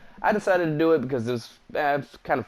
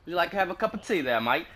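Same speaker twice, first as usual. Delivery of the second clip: quick, higher, hammed-up British accent; mock British accent; 4 semitones higher, faster than usual. Player to squadmate Mike, offering tea in a mock British accent. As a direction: toss off a bad British accent, fast. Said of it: "I don't know how to speak their accent".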